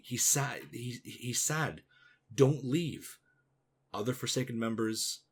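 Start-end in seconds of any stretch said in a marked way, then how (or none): 2.3-3.2 mild pleading cry, raised and louder; a retold cry, a little louder and higher. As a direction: call out as if to stop someone, lightly acted. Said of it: "one Forsaken cries out".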